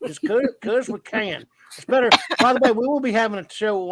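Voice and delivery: mild goofy voice; silly put-on voice. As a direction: stay in the goofy voice. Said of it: "We're all gonna talk like this".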